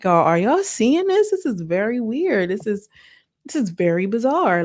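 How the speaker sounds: lightly voiced baffled onlooker, pitch lifted at first; imitated disbelief. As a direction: play a puzzled aside to the camera. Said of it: "Saseki was just looking at, like, the camera".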